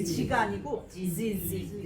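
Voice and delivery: Z buzzed like a bee, slow; buzzing z. Shown as a demonstration. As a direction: make the Z hum like a bee, not 지. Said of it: "벌이 지지 하는 것처럼 Z". (벌처럼 지지 울리는 Z)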